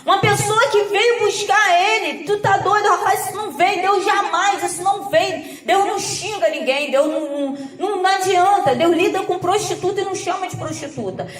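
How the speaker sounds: indignant rebuke. Retold or imitated. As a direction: retell an incredulous, insistent telling-off. Retelling her indignant rebuke. (repreensão indignada, recontada)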